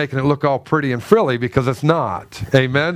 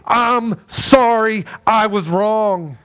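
slow sincere apology; 4 semitones higher, much slower than usual. Shown as a demonstration. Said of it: "Dad, you need to say".

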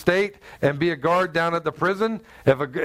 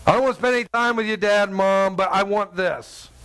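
put-on fast, whiny spoiled-kid demand; spoiled child; 2 semitones higher than usual. Preacher mimicking child nagging parent, bratty whine. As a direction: play the brat begging. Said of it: "like a spoiled little child".

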